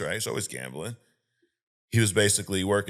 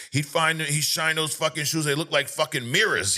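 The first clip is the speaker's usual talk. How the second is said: higher-pitched imitation of hyping someone up; mock-impressed boasting; retold bragging praise; 7 semitones higher than usual. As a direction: talk him up in a raised voice. Retold backhanded praise of Tommy.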